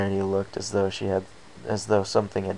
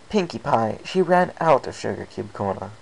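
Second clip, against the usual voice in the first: annoyed Rarity; 3 semitones higher, 3 dB louder than usual. Acted. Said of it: "Rarity looked annoyed as she replied".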